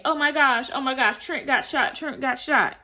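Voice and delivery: mock panic. Friend retelling her panic, mock frantic. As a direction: play a friend panicking over the shooting. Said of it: "So she's panicking".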